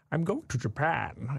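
slow, lightly Scottish Sean Connery voice; a half-hearted Sean Connery drawl; Sean Connery impression. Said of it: "I tried to do, like, a Sean Connery impression".

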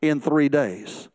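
slow and low, leaning on "three"; measured preacher's emphasis on "three"; slow stressed three. Shown as a demonstration. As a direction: draw out "three" slowly, falling at the end. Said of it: "a precept of how God worked".

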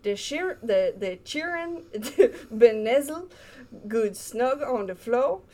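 put-on reading a poem in a Cajun accent; storybook read in a light Cajun accent. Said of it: "with a Cajun accent".

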